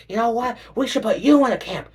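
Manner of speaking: high, loud sneering scheme; mock bigot. A mocked bigot proposing camps, high and smug. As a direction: announce the camp plan like a smug villain.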